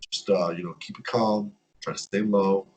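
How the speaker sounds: quietly calm a nervous fan; calm advice. Retold or imitated. Exchange student calmly advising the away fan, softly reassuring. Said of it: "He's, like, speaking really calmly".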